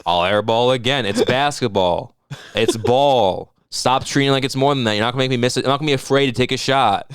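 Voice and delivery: a hint of Kawhi's flat calm; Kawhi impression. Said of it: "And then Kawhi airballs it".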